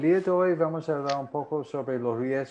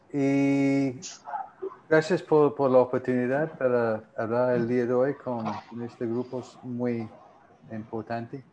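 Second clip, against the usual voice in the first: Spanish with a gringo accent; English speaker's accent in Spanish; American accent Spanish. Real, not acted. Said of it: "sigo hablando como gringo".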